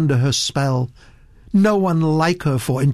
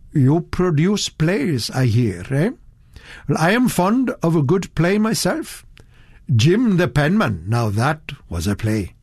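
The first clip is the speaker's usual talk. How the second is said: higher, bluff clubman making conversation; hearty old gentleman; 5 semitones higher than usual. A narrator's reading. Old gentleman chatting to the producer, hearty. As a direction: boom out like a hearty old buffer. Tomlinson voiced.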